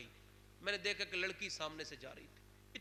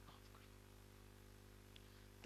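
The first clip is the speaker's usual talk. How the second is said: tearful plea; 10 dB quieter, much slower than usual. Acted. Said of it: "کانپ کے رونے لگا".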